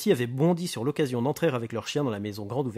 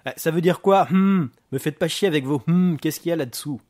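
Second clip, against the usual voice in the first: loud, high, agitated demand; mock the hmm and demand an answer; rattled gangster losing his temper; irate; 5 semitones higher, 10 dB louder than usual. Booker angry at detective's hmm.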